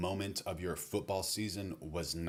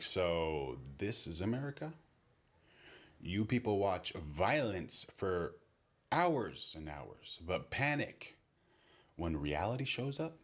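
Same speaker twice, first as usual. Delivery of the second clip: mock shocked. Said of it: "He would act shocked".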